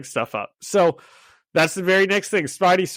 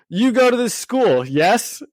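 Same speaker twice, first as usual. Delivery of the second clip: higher mock Russian accent; pitched-up Russian-accented impression; 7 semitones higher, 4 dB louder than usual. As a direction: quiz them in a put-on Russian accent. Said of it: "he's doing it all in, like, a Russian accent".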